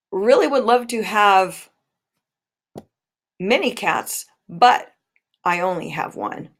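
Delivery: long pause after cats and after but; comma pause before but. Shown as a demonstration. Teacher modelling a compound sentence, pausing at the comma. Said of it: "you should have heard that, that comma".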